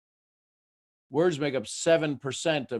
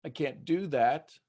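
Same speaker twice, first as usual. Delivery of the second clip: overwhelmed listener; 3 semitones higher, slower than usual. Retold or imitated. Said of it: "if you talk like this all the time".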